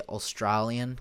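put-on Australian vowels on the word; Australian accent. Shown as a demonstration. Demonstrating a memory trick, mock Australian accent. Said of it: "'cause that's how".

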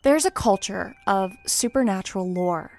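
measured, eerie storyteller read; spooky story narration. Acted. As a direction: read the lore like a campfire tale. Reads lore over music.

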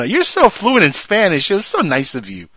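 lightly voiced gushing mom; mom quote. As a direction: gush sweetly like a proud mom. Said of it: "Wash tells them".

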